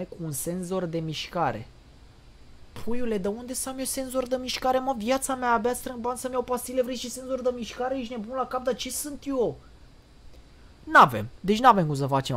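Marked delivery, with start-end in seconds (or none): 2.8-9.6 high-pitched, whiny protest; indignare exagerată. Real, not acted. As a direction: protest in a raised, pleading pitch. Indignant rant at the game's demand. (indignare cu glas subțire, pe ton ridicat)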